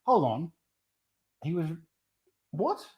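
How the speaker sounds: rising, incredulous double take; stunned mock reaction; shocked disbelief. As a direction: replay the moment it sinks in, voice shooting up. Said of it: "I was just like".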